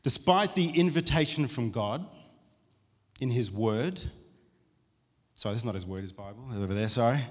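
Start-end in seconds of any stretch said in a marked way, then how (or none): 0.0-4.0 slow, measured reading from a book; reading aloud. Real, not acted. Preacher reading a book passage to the church, slow and deliberate. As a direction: read it out deliberately, phrase by phrase.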